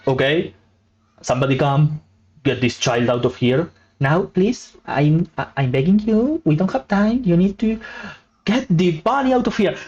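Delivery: plead, a bit frantic; bunny pleading. Acted.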